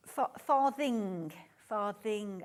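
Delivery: farthing said slowly in a Brummie accent. Real, not acted. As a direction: spell out the word in Brummie. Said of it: "It's my Brummie accent".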